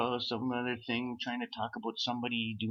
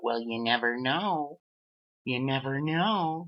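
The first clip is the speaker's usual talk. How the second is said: mock evasive; 4 semitones higher, 6 dB louder, slower than usual. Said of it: "guy's evasive reply".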